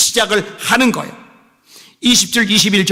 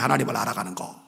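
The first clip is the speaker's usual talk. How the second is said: softer echo; 8 semitones lower, 10 dB quieter, faster than usual. Shown as a demonstration. Preacher repeats point softly.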